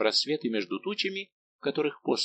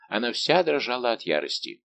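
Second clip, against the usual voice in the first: ordinary delivery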